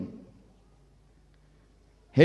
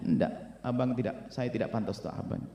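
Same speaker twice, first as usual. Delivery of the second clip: hushed pleading wife; 6 semitones lower, 10 dB quieter than usual. Acted. Wife insisting she is unworthy.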